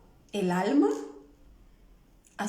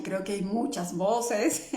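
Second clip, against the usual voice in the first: laughing. Real, not acted. Laughs reading Gladys comment.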